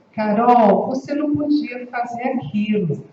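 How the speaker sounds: gentle, inviting delivery; calm invitation. Shown as a demonstration. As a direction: say it to invite, not accuse. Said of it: "com entonações diferentes".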